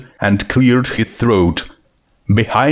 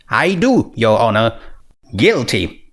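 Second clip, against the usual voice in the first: solemn princess. Acted. Twilight pleads guilty in court.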